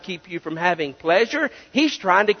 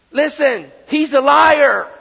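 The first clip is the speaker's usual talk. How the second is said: forceful declaration; 5 semitones higher, 5 dB louder, slower than usual. Real, not acted. Preacher's emphatic climax.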